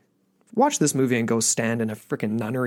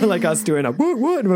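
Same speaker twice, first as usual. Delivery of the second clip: laughing; 8 semitones higher, 4 dB louder than usual. Real, not acted. Laughing through a cheer.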